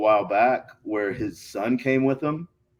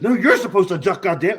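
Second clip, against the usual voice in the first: high, loud mock yell, stressing YOU'RE; retold angry retort; 8 semitones higher, 6 dB louder than usual. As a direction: throw it back loudly, punching YOU'RE. Opponent yells correction back.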